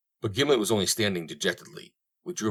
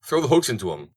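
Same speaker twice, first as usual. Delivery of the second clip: raised, higher call across the corral; shouted; 4 semitones higher, 3 dB louder than usual. Acted. Willie to Corson on the horse, shouting. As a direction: egg him on with a shout. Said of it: "shouted Willie".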